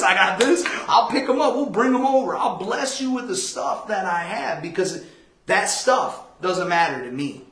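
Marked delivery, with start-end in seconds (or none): 0.0-4.6 bright, loud eager helper; all keen to help a friend; eager offer. Retold or imitated. Speaker eagerly offering Brandon help, then loud and laughing.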